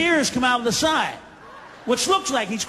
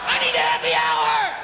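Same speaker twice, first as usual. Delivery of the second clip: put-on low drunk growl; 10 semitones lower than usual. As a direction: drop low for the punchline. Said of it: "some guys walk home and they".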